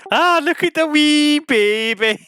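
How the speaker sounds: put-on Irish accent. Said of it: "That did sound Irish".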